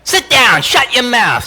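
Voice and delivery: high, loud barked order; bossy yelling mentor. Retold or imitated. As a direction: bark it like a loving, bossy old New Yorker. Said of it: "she'd say".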